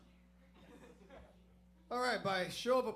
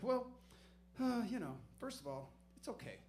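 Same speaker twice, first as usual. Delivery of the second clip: calm cop; 3 semitones higher than usual. Retold or imitated. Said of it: "he's like".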